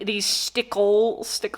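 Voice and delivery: "stickle": sticks with an L tacked on; added L ending. Shown as a demonstration. Vlogger tries to sound Missourian, "stickle" with an L. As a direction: try "stick" with a Missouri L on the end. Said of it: "trying to add an L onto the end".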